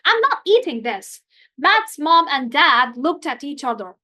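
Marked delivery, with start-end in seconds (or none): 0.0-1.2 put-on higher, stubborn kid's protest; child flatly refusing dinner; defiant refusal. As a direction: refuse the plate outright. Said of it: "Matt yelled".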